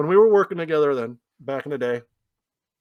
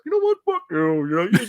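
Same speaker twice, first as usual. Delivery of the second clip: aggravated; 3 semitones higher than usual. Retold or imitated. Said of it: "completely aggravated".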